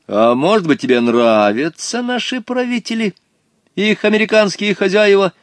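high, pressing call; calling after someone. A narrator's reading. Boy to the departing stranger, calling out suspiciously. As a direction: fling the question after them. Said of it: "крикнул он вдогонку".

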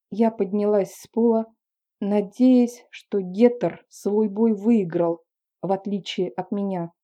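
plain reading voice

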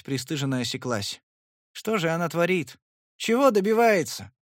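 usual speaking voice

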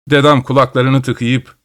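ordinary delivery

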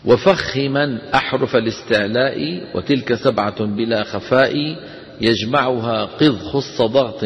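slow measured chanting of the poem; verse recitation. Shown as a demonstration. Teacher reciting a tajweed poem to students, slow chant. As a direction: recite the verse slowly and evenly.

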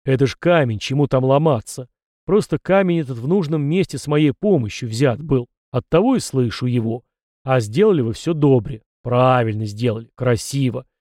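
grumpy ancestor spirit. Acted. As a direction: lecture him like a gruff forefather.

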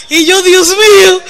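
laughing through mortified words. Retold or imitated. Wife recalling husband's kisses on bus, laughing. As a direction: laugh it out in embarrassment.

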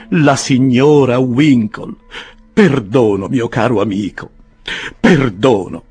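lightly voiced young man begging; a mild, earnest plea for pardon; pleading Winkle. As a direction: Winkle on his knees begs Pickwick, pleading. Winkle begging forgiveness on his knees.

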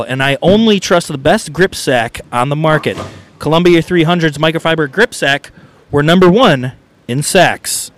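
ad read. Acted. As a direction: pitch the grip sack like a radio spot. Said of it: "we like to do an advertisement".

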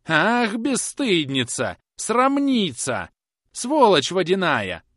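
высокий, медленный, громкий брань; брани её в неистовстве; неистовый крик. A narrator's reading. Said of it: "неистовствовала за дверями миссис Пипчин". (взбешённая старуха бранится за дверью)

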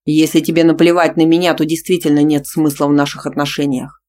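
loud furious voice; furious growl. Acted. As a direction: growl it in rage. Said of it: "прорычал в бешенстве Тима".

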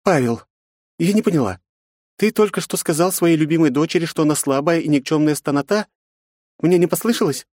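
high woman's voice, indignant; a woman calling a father out. A narrator's reading. Aunt Yufi confronts Pavel, indignant.

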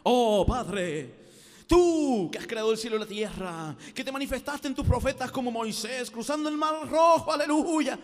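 loud, swelling, grandiose invocation; affected solemn prayer rising in pitch and volume; put-on pompous prayer voice. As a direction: build up like a showy preacher. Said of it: "imposta la voz así".

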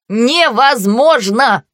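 ringing, slow mocking laugh; laughing taunt. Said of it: "Звонкий голос Акса смеётся".

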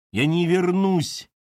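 high, drawn-out cry of refusal; shouting. A narrator's reading. Daughter refuses to return to work, shouting. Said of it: "закричала Катерина".

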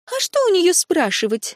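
резко, с раздражением; огрызнуться на собеседника; злобный выпад. A narrator's reading. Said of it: "вызверилась Лури". (злобно огрызаясь)

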